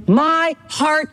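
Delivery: fervent preacher voicing a loving apostle; heartfelt plea. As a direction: plead it from the heart, drawing out each word. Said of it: "He's saying".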